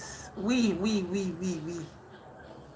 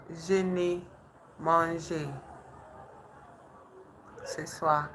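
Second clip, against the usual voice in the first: whispered practice; 5 dB quieter than usual. Real, not acted. Practicing French phrase quietly.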